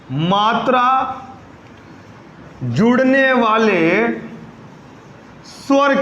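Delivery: slow dictation. Shown as a demonstration. Dictating notes slowly.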